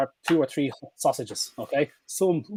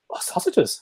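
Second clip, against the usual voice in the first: whispered, higher "Oh, sausages" as the dog; dog's whispered thought; 5 semitones higher, slower than usual. Retold or imitated. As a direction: voice the dog's secret realisation. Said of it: "he'll go".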